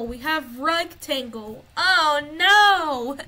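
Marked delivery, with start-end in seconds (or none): 1.8-3.2 alarmed shout. Real, not acted. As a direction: yell it like something just jumped out at you. Sudden alarm in game.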